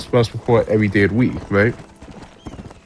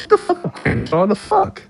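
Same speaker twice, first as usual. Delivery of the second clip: angry yell. Real, not acted. Yelling at game character.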